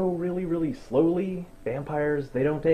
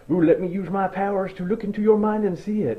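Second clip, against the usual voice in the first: higher, eerie mock-mystic voice; creepy vampire leader; 5 semitones higher than usual. Creepy long-haired Volturi to the tattler, eerie mock voice. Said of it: "he's all like".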